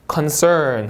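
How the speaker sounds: slow "concern" with a full R; R sound. Shown as a demonstration. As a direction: curl the tongue for R in "concern". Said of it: "하고 R 발음". ("concern"의 R을 살려 발음)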